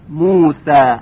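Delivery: light, thin س in موسى with a fronted æ; light tarqiq. Shown as a demonstration. Tajwid teacher showing the letter س, light tarqiq. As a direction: say موسى with a fine, unemphatic س.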